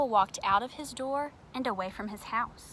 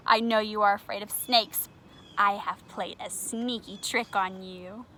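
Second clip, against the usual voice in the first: gloating; 6 dB louder than usual. Acted. Triangle gloating.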